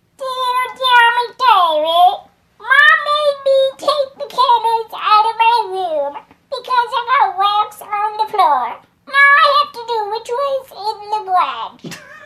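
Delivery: very high-pitched, alien-like put-on character voice. Reading a letter aloud to others: sounding like Stitch. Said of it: "That sounded like fucking Stitch".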